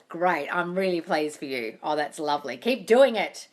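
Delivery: ordinary delivery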